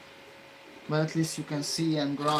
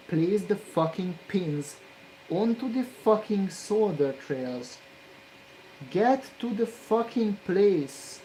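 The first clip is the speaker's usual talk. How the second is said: slow, loud, stressed cursing that climbs higher; angry; 4 semitones higher, 3 dB louder than usual. Real, not acted. Solderer ordering the pin into place, slow angry yell. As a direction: hammer each word in frustration. Pins won't sit on trails.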